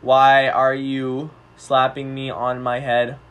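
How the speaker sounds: slow, low robotic alien voice; old speech synthesizer. Acted. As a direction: speak like a stiff alien robot. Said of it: "blind alien and human roleplay".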